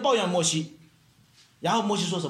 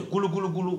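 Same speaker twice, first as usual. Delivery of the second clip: quick imitated tummy rumble; stomach rumbling; faster than usual. Preacher recalls having no meal, quick rumbling imitation. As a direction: mimic a hungry belly gurgling fast. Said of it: "我肚子就".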